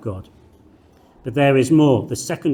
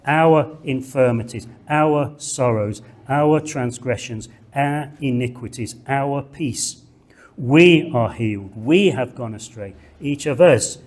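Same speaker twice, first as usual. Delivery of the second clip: "our" and "we" hit like a drumbeat; drumbeat stress. Shown as a demonstration. Teacher hammering the repeated "our" for the class, drumbeat stress. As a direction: beat out each "our" in turn. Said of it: "pound through these verses like a drumbeat".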